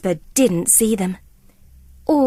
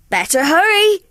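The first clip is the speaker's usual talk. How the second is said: urgent call; 7 semitones higher, 5 dB louder than usual. Acted. Labrador urges.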